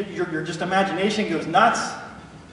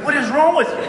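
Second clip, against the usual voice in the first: laughing question; 10 semitones higher, 4 dB louder than usual. Retold or imitated. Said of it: "He goes".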